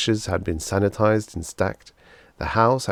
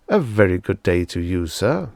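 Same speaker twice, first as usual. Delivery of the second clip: a touch louder, jovial salesman greeting; hearty salesman; 4 dB louder than usual. Acted. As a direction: greet him like a beaming salesman.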